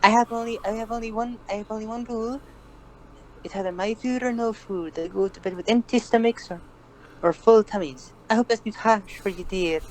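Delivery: kindly Scottish granny. Retold or imitated. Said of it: "very kindly Scottish-sounding old woman".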